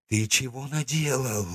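stammering, strained rasp; hoarse wheeze. Acted. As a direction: push the words out through a dry throat. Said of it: "просипел он".

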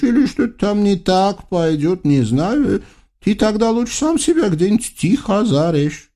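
high, fussy ruler's voice; spoiled sultan. Acted. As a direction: babble orders like a pampered tyrant. Sultan gives orders.

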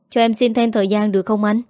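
quick, pleading rush of words. Acted. Debtor begs for more time.

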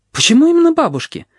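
very high astonished question; Red asks in amazement; surprised. A narrator's reading. Red surprised by Blind's question, very high. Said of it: "удивляется Рыжая".

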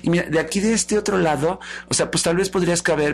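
affected, gushing excuses; vain socialite. Acted. Vanity listing her clothes and shoes to Love, affected. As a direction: stretch the boastful words, full of yourself.

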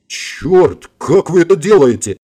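acted startled yell. A narrator's reading. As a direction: cry out in alarmed amazement. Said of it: "заорал Влад".

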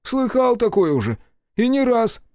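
high, loud grumbling complaint; grumbling secretary. A narrator's reading. Secretary grumbles to the mayor about leave, high. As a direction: grumble out the grievance.

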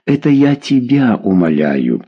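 usual speaking voice

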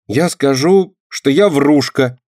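blurted, high and quick to confess; girl blurting out her confession. A narrator's reading. Girl blurts out confession to Lenka, high and sudden. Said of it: "неожиданно выпалила Динка".

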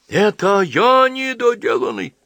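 high, loud, drawn-out outrage; outraged yell. A narrator's reading. Insulted young man yells at the old priest, outraged. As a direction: cry out, stung by the insult. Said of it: "завопил Джон".

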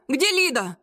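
a narrator's mild shriek of "Где Лида?". A narrator's reading. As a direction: squeal "Где Лида?" in panic. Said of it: "и взвизгнул".

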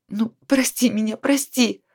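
whispered apology; penitent mumble. A narrator's reading. Ashamed Sveta whispers her apology to her friend. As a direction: mumble the sorry under your breath. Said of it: "покаянно забормотала Света".

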